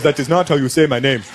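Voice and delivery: imitated African dealer correcting a customer. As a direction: play the dealer, firmly correcting. African dealer acted, correcting him.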